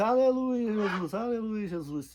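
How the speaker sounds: high, fervent, shouted delivery. Retelling Paulo arriving with the boy in his hands, retelling a shout. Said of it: "E gritando assim".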